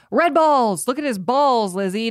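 mock shout of warning, tapering off; Aaron Taylor Johnson. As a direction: call out like a castmate, half-hearted by the end. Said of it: "Aaron Taylor Johnson would yell".

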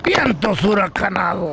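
slow, stretched-out comic answer; drawn-out catchphrase. Pretend. Co-host answering his requested how-are-you, drawn-out catchphrase. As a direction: draw out each word as a punchline. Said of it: "pregúntame cómo estoy".

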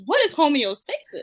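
high, puzzled mock question; confused voice. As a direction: play him baffled by the word. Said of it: "all he been thinking about".

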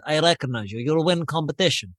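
lightly put-on Russian accent. Big guy addresses a stranger in the gym, Russian accent. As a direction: imitate a Russian gym-goer, accent not too heavy. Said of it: "You can tell from the accent he's Russian".

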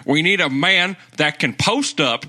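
mock Southern hot-take rant; Southern accent. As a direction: lay down the verdict in a put-on Southern accent. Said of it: "in a Southern accent".

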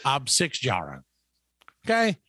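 slow, drawn-out mock German ad read; confidently mangled German with a heavy American tongue. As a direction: read out pretend German product copy with confidence. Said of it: "because I speak flawless German".

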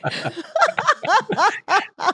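a high-pitched real laugh with a rise. Real, not acted. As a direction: let a high laugh rise up at your own joke. Laughs at her own joke.

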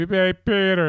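loud, high mock call; catchphrase call. Dad calling catchphrase to kids in their room, mock call. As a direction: toss it out as a holler. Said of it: "I'll just say".

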